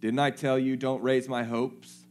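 a grieving mother throwing his promise back at him; angry reproach. Retold or imitated. Mother reproaching Elisha, loud and slowing. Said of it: "She's mad".

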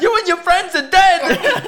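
high, slow, cackling villain threat. Retold or imitated. Friend retelling the movie, mock villain cackle. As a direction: ham up a gleeful movie villain.

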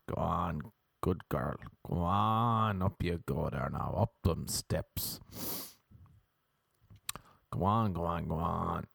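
mock-encouraging Irish lover; Irish dirty talk. Irish dude unsure in bed, coaxing mock dirty talk. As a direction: coax them along in Irish patter. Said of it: "That's Irish dirty talk".

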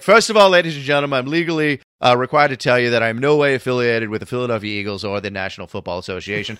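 hammy fake British disclaimer; pompous stage announcement in faux British; faux British accent. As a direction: put on a not-very-good British accent. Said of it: "this faux British accent".

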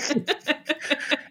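giggly high laugh. Real, not acted. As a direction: burst of high-pitched laughter. Laughing at baby dancing.

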